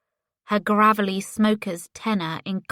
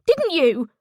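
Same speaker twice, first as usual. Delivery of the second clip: higher, louder repeat of the demand; shouted demand; 8 semitones higher, 5 dB louder than usual. A narrator's reading. Ellie pressing Paisley for an answer, shouted repeat. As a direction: push it up into a shout.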